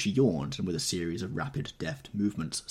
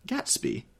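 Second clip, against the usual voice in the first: high, startled question; sharp demand; 10 semitones higher than usual. Acted. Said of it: "demanded Daisy".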